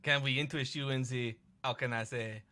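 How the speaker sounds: put-on French-accented coy sales pitch. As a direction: offer coyly in a French accent. Voices French slime game character.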